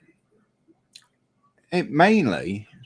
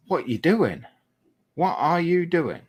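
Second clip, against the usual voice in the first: rising disbelief, second question higher; mock yell at overtaking drivers, pitched up; disbelieving outcry; 9 semitones higher than usual. Shouting at overtaking cars.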